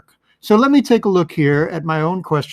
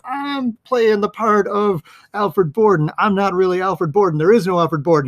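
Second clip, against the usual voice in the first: Borden confiding; 5 semitones higher than usual. Acted. Magician hinting his secret to his rival, lightly acted confession. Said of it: "because he's like".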